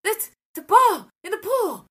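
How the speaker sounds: put-on high, little-kid voice; voicing a small child; toddler voice. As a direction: imitate a toddler. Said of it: "he kept going".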